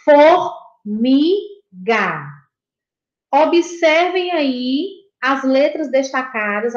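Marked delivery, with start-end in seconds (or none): 0.0-1.5 "Formiga" split as For, mi, ga with long pauses; teacher dividing "Formiga" into three detached syllables. Shown as a demonstration. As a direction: sound out "Formiga" slowly, one syllable at a time. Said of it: "observem a separação das sílabas".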